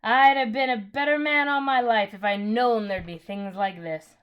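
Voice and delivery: loud, earnest Cockney cabman; cabby moved by the creation song. A narrator's reading. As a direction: speak from the heart, overwhelmed. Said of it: "said the cabby".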